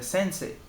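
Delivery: "sensei" with the final E held long, no I glide. Shown as a demonstration. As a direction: stretch the last vowel of "sensei". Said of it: "só vai prolongar o E".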